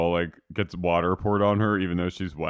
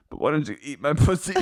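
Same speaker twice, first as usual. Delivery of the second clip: mock seductive; 5 semitones higher, faster than usual. Carrie offers comfort, acted.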